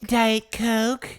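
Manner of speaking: "Diet Coke" in a high-pitched questioning squeak; silly high voice, rising at the end; quirky catchphrase "Coke". Pretend. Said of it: "say Coke any other way now".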